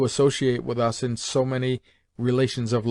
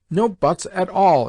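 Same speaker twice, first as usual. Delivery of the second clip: slow, louder and higher, cutting him off; flaring up; 6 semitones higher, 5 dB louder, slower than usual. A narrator's reading. Sister flaring up at her elder brother, slow indignant protest. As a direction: plant each word, hotly indignant. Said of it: "flaring up".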